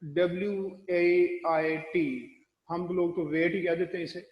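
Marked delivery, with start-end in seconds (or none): 0.0-2.1 slow letter-by-letter spelling of the word; spelling out slowly. Shown as a demonstration. Teacher spelling out the word for students, slowly. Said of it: "उसमें क्या चलता है कि वो".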